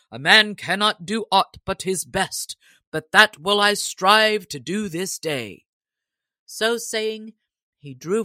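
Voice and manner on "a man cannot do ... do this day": sturdy. Acted. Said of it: "quoth Gilbert right sturdily".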